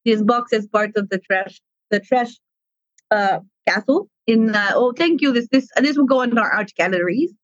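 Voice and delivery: slow Russian-accented Trash Monster; Russian accent, deliberate and unhurried. Shown as a demonstration. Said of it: "I do a Russian accent semi-regularly".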